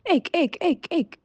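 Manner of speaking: high, sharp frog croaks; croaking frogs. A narrator's reading. Frogs crying at the peasant from the pond, high croaks. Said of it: "he heard the frogs crying".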